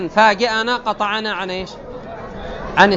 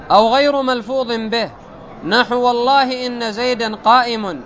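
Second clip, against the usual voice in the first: slow, higher-pitched formal recitation; reading text aloud; 4 semitones higher than usual. Acted. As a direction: recite the textbook in measured, drawn-out phrases. Reads the grammar text aloud. (قراءة المتن بتمهل ونبرة عالية)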